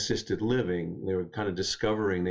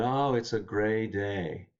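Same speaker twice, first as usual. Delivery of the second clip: slow, lightly imitated Russian accent; a hint of Russian accent, drawn out slowly; slower than usual. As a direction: quote an old Russian grandmother with a mild accent. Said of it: "in her thick Russian accent".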